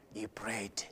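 breathy whisper at the end of the verse; hushed whisper. Acted. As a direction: let it fall into a reverent whisper. Hushed end of the narrated scene.

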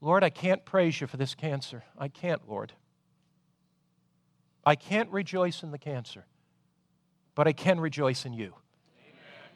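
softly, surrendering in prayer; quiet prayer. Acted. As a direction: pray it low, as if alone with God. A quiet prayer in hard times.

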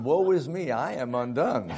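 hammed-up biblical despair; mock lament. Boy sees his spotted face in mirror, mock lament.

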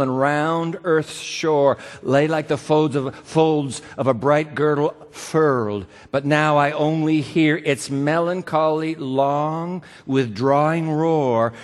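slow, measured recitation; solemn slow poetry reading; poem reading. Acted. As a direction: let the lines roll like the tide. Reads the poem aloud.

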